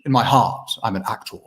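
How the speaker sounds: hammed-up British thespian, sinking low at the end; grandly British, trailing down; incredibly British. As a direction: play up the British actor. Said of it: "be incredibly British for a moment".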